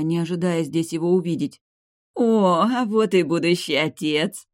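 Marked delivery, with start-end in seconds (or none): 2.1-4.5 loud, slow happy welcome; happy exclaim. A narrator's reading. Mother welcomes the future father, loud and happy. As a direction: greet him with joy. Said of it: "счастливо всплеснула руками матушка".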